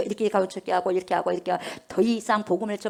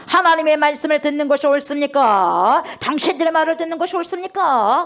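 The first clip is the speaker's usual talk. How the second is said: a touch of bold apostle, louder with rising questions; bold challenge; 4 semitones higher, 5 dB louder than usual. Retold or imitated. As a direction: ask it squarely, unafraid. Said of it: "하면서 당당하게 말하고 나오지".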